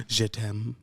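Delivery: playful put-on French accent. Shown as a demonstration. Showing how everyone does the accent, mock French accent. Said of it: "you do their accent".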